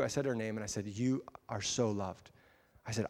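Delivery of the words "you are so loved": slow, softer, heartfelt affirmation; tender reassurance. Retold or imitated. Speaker retelling words to a hurting stranger, tender and slow. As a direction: say it slowly and tenderly, letting it land.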